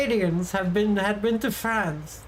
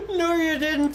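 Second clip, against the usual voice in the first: No, you didn't through a laugh, higher; 6 semitones higher than usual. Real, not acted. Retorting to a student through real laughter. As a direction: giggle the words out.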